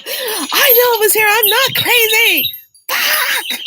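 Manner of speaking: high, loud laughing protest; half laughing, half yelling; laughing frustration. Retold or imitated. Insisting to her sister she is not crazy, high and laughing. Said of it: "walking up and down".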